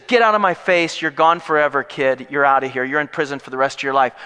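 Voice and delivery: loud, mock-angry dismissal; angry banishment. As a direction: throw him out, hammed-up and forceful. Acting Potiphar banishing Joseph.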